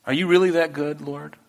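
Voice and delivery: the same question in a fuller, pleading voice; earnest plea. Retold or imitated. Believer asks the Lord again, earnest and fuller. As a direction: ask it again, openly and sincerely. You're like.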